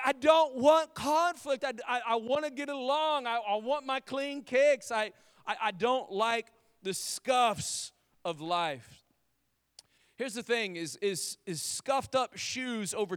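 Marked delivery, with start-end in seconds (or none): 0.0-9.0 mock whiny plea. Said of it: "most of us are like".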